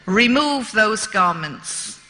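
slow, mock-gruff order from a big bearded governor; a hint of a menacing prison governor, drawn out; growled order. Prison governor ordering the woman prisoner, mild mock growl. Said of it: "he growled at me".

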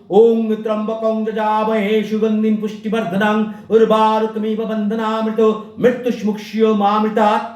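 steady devotional intoning; mantra recitation. Shown as a demonstration. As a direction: recite the mantra evenly and reverently. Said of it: "এরপর বলুন". (মন্ত্র পাঠ)

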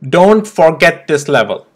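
slow, firm stress on "Don't forget"; emphatic reminder. Real, not acted. Trader reminding viewers of the level to watch, emphatic. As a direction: press each word of "Don't forget this level". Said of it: "I'm emphasizing it quite hard".

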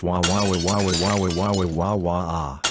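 spoken-out wah-wah bawling; mock crying. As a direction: wail wah over and over like a bratty child. Child wails over refused presents.

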